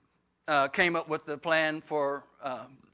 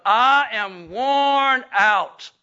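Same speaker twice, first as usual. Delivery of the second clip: put-on slow, drawn-out, worn-out old woman; weary Sarah; 4 semitones higher, 10 dB louder, much slower than usual. Preacher voicing Sarah's weariness, slow and drawn out. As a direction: stretch it out like a tired old woman. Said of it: "this is her perception of herself".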